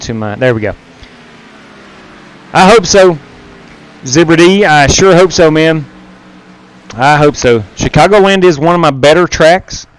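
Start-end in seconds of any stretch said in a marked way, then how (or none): 2.5-9.9 robot voice. Real, not acted. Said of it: "Am I still doing the, the, uh, robot voice?".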